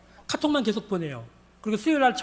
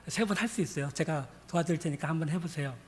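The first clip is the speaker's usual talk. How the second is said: softer, calm encouragement; low-key, steady reassurance; reassuring; 4 semitones lower, 8 dB quieter than usual. Retold or imitated. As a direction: settle the doubt gently. Pastor reassures the doubtful woman.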